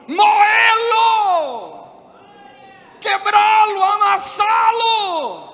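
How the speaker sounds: high, shouted sermon, held at a peak; full-force preaching. Real, not acted. Preacher tells congregation God must break them, full-force preaching. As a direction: thunder it out, stretching the key words.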